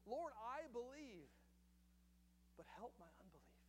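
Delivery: a hushed tearful cry for help; tearful plea. Acted. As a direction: whisper the father's tearful prayer. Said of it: "cried out and said with tears".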